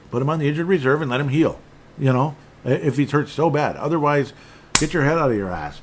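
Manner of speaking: fed-up fan ranting at Terrence; frustrated rant. Real, not acted. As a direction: vent at the player who won't heal. Venting at injured player.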